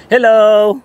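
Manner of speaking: bright high hello to the animals; high pet greeting. Real, not acted. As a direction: call out sweetly to the pets.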